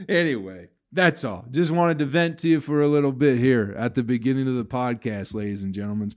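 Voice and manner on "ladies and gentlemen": "gentlemen" with an extra S on the end; stray plural S. Real, not acted. Podcaster addressing listeners, "gentlemen" slipped into a plural with S. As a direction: slip an S onto the end of "gentlemen". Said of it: "put the S on it like a fucking idiot".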